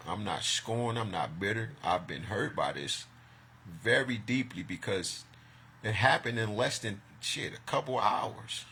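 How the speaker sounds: confessing deep hurt. Real, not acted. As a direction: let the hurt sink in quietly.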